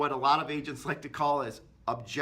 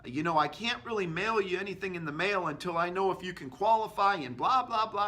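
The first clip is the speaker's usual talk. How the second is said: pushy agent; 3 semitones higher than usual. Shown as a demonstration. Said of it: "they start talking like this".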